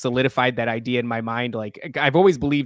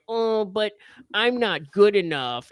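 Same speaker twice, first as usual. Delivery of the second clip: higher, slow, whining mock voice; mock whiny self-pity; 6 semitones higher, slower than usual. Mocking someone who feels unworthy, in a slow whiny voice. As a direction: pout it out like a sulking child.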